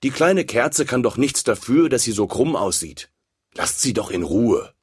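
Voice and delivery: a hint of a kind big sister; lightly voiced kind candle. White candle defends the little one.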